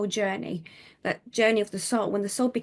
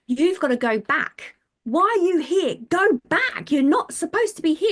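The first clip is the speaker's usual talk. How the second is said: imitating firm guide; 8 semitones higher, 6 dB louder than usual. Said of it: "He said".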